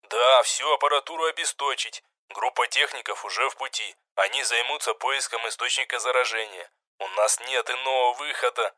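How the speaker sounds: a cold order over the radio; curt radio order. A narrator's reading. The commander orders the kill over radio, curt. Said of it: "Это их канал переговоров".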